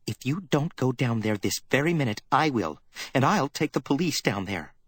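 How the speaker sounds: put-on a worried girl making a stand; young secretary, defiant. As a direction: dare him to refuse. Effie voiced, threatening to go.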